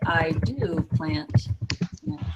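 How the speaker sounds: slow, with do leaned on; slow emphatic demo; emphatic example. Shown as a demonstration. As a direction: give "do" a little push, slowly. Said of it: "We also include the emphatic".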